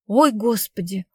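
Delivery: mildly acted dismayed exclamation; shocked gasp. Klavdia hearing of a killing, gasping in shock. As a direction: gasp it out, lightly aghast. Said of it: "охнула Клавдия".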